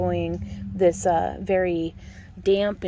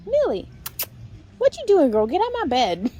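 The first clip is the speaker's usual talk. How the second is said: high, louder call to the dog; 9 semitones higher, 5 dB louder than usual. Real, not acted. To Millie on the bed, a high surprised call. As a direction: pitch it up and call her out.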